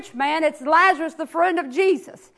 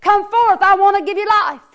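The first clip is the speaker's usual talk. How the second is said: hollered call; 3 semitones higher than usual. Acted. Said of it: "Jesus hollers again".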